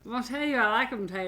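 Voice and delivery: quick, lightly done mumbling backwoods man; Sling Blade voice. Retold or imitated. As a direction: toss off a hint of the movie's drawling handyman. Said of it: "Sometimes you Sling Blade it".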